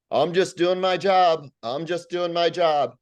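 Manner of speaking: high, slow, whiny mimic of the driver; mock driver reply. Mocking the truck driver's reply.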